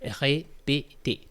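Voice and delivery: "Répéter" spoken very slowly, each syllable clear; slow, careful répéter. Shown as a demonstration. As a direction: draw out "Répéter" syllable by syllable for learners. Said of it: "comes from the infinitive répéter".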